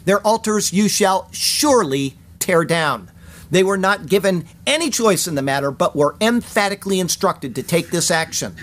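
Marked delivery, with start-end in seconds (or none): 0.0-3.1 slow stress on "surely", set apart before "tear down"; strong emphasis. Shown as a demonstration. Teacher translating the command with strong emphasis, slow and weighted. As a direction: weigh "surely" and pause after it. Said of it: "There's a strong emphasis".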